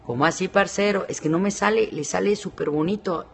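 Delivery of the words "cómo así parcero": lightly imitated Colombian accent. Shown as a demonstration. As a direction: have a tentative go at Colombian. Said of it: "acento colombiano? Lo estoy practicando". (acento colombiano, intento leve)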